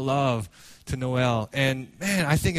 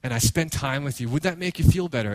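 gentle, lowered coaxing; retold tender father; 4 semitones lower than usual. Father consoling his daughter, gentle lowered voice. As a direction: offer comfort to an upset child. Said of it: "and then he says".

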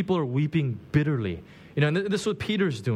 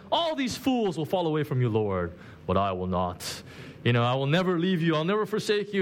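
acting Peter. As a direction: ham up Peter's brag a little. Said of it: "it's like some kind of play".

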